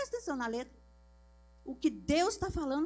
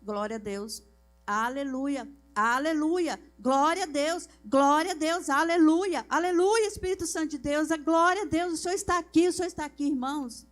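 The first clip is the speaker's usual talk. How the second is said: praise rising up; 3 semitones higher, 7 dB louder than usual. Retold or imitated. Stiff-necked woman retells praying alone, swelling into loud praise. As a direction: start in a murmur, build to loud high praise. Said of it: "Eu lembrei dela".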